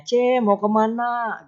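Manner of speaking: a lightly voiced neighbour calling out, slow and drawn out; slow, sing-song call to a neighbour; friendly neighbour greeting. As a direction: greet a passing woman neighbour warmly, stretching it. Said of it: "gitu kan ya".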